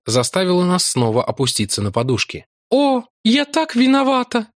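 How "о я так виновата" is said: high, slow, near-tearful cry; a gentle maiden nearly in tears; almost crying. A narrator's reading. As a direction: say it as if about to cry. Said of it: "чуть не плача вскричала".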